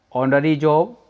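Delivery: "ऑनरी" opening on an O, no H; silent H. Shown as a demonstration. Teacher reads examples to students, "ऑनरी" with silent H. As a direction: drop the H at the start of "ऑनरी". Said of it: "silent के रूप में आ रहा है".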